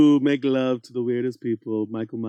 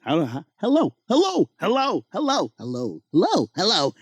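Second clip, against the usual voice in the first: trying out clown voices; 3 semitones higher than usual. Pretend. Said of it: "What does Art the Clown sound like".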